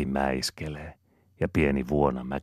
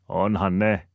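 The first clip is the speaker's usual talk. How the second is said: a higher, louder voiced Ananias; Ananiaksen ääni; 6 semitones higher, 5 dB louder, slower than usual. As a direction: answer back with a lifted voice. Ananias replies to Aapeli. (Ananias vastaa korotetulla äänellä)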